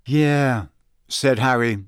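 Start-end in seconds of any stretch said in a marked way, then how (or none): 0.1-0.7 slightly strange, not his own; unnatural voice. A narrator's reading. Harry replying to a good-luck wish, unnatural voice. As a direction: answer in a voice unlike your own. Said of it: "in a voice that was most unlike his own".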